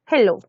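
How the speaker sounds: "hello" as a Spanish-speaking beginner says it; learner's Spanish-sounding "hello"; learner's mispronunciation. Shown as a demonstration. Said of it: "pronuncian algunos como hello".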